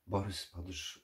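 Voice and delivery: ordinary delivery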